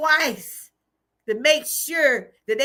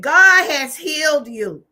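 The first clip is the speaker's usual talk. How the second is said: proclaiming the news; 2 semitones higher, 6 dB louder than usual. Retold or imitated. Retelling the doctor's joyful news.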